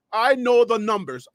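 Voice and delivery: firm and sure of himself; confident claim. Real, not acted. Host boasting he knows the ratings, confident. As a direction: state it like a fact you own. Boasts then backtracks on numbers.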